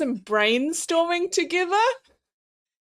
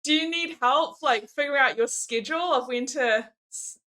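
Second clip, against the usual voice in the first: sweet helpful partner. Retold or imitated. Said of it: "No, no, like".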